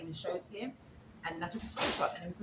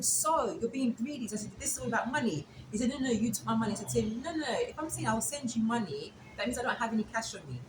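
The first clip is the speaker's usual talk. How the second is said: heated argument; 5 semitones higher than usual. Retold or imitated. Arguing with the driver.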